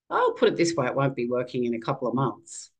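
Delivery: lightly voiced doctor, plain and unbothered; matter-of-fact. Oncologist telling the patient, mildly matter-of-fact. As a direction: deliver bad news like a weather report, mildly. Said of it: "very matter-of-factly".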